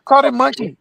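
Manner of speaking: mock excited call. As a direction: announce the catch, teasing. Repeat, a bit higher.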